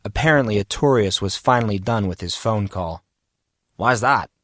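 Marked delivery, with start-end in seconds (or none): 3.8-4.3 a slightly puzzled question; a bit confused, asking for the reason; mildly baffled; befuddled. Acted. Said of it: "sounded a bit befuddled".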